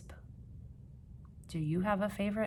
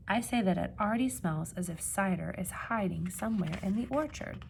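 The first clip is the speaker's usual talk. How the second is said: storybook reading. A narrator's reading. Reading picture book to children.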